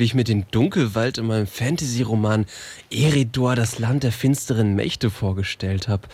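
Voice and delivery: deutlich tiefer, Mädchen in einem fremden Körper; fremde tiefe Stimme. Acted. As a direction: tiefere Stimme, noch ungewohnt. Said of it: "was ist denn mit meiner Stimme los". (mit vertauschter, tieferer Stimme staunend)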